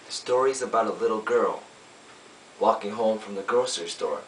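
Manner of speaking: lightly acted lawyer starting a story; lawyer's summation. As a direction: gently lead the jury into a story with long pauses. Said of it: "I play a lawyer".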